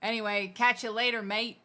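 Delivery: Aussie sign-off, rising on mate; learner's Aussie accent; Australian accent. Shown as a demonstration. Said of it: "have a go in your Australian".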